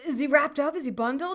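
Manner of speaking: doctor checking the basics; calm doctor questions. Retold or imitated. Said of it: "And he's like".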